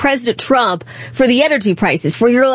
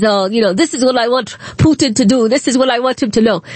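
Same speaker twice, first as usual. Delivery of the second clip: lightly put-on Ukrainian accent, lower at first; terrible Ukrainian accent; 4 semitones lower, faster than usual. Host imitates Ukraine's president in Oval Office, bad Ukrainian accent. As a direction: attempt a Ukrainian accent, badly. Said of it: "That's a terrible accent".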